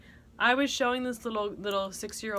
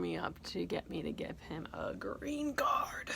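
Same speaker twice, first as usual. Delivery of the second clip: whisper; 3 semitones lower, 6 dB quieter than usual. Acted.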